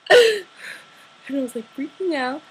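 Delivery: high, slow giggle bursting out; giddy laugh. Real, not acted. To viewers about meeting a singer, giddy laughing. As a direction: laugh through the words, giddy.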